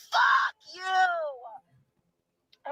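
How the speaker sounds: real furious outburst; angry shout. Real, not acted. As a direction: spit it out in real anger. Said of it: "I'm so angry".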